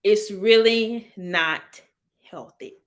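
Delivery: very slow, spaced-out words; calm and deliberate. Real, not acted. Repeating her point about parenting, slow and deliberate. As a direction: draw each word out calmly. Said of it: "I got real calm when I said it".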